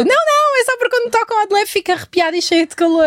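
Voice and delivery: high, flustered excuse, lightly mocking; mock flustered Rita. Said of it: "imita a Rita a justificar-se". (imitação aguda e atrapalhada da Rita)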